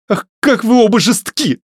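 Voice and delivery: high, loud, anguished cry. A narrator's reading. Varya cries out at both cruel men, high and loud. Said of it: "вскричала Варя".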